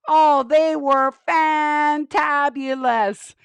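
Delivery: slow, drawn-out puppet gushing. Pretend. Penny praises the audience's singing, gushing puppet voice.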